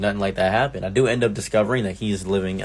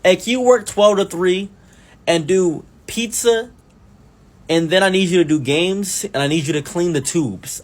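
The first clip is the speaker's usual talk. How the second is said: higher-pitched mock boss voice; imitating the boss; 7 semitones higher than usual. Comic mimicking his manager's endless demands, mock boss voice. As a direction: rattle off the boss's demands in a put-on voice. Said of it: "For instance".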